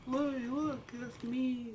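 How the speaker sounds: squealed high; high excited voice. Real, not acted. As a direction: squeal it with delight. Excited squeal at seeing himself.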